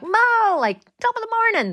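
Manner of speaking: very high, hammed-up Cockney caricature; mock Cockney accent. Guest imitates her Cockney family for hosts, exaggerated Cockney accent. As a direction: squeal out a silly mock-Cockney greeting. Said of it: "They're all like that".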